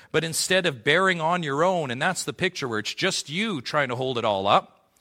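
loud, high pulpit proclamation; fervent preacher declaring loudly; preaching climax. Acted. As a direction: proclaim God's promise to the congregation.

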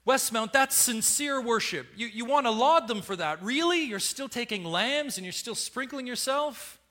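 full-volume rebuke from the pulpit; preaching at full force. Acted. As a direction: shake the church out of its praise for ritual.

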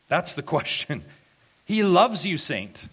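loud, high exhortation; urgent pulpit cry; impassioned preaching. Real, not acted. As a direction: burst out and press it on the congregation. Preacher erupts urging the congregation.

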